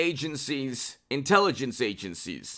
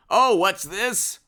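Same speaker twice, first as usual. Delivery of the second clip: slow, high-pitched feigned discovery; mock surprise; 5 semitones higher, 4 dB louder, slower than usual. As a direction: draw out the pretend astonishment. Feigns discovering breaking news.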